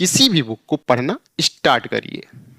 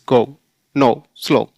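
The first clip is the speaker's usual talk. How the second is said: British style; 3 semitones lower than usual. Retold or imitated. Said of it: "British वाले कैसे बोलते हैं?".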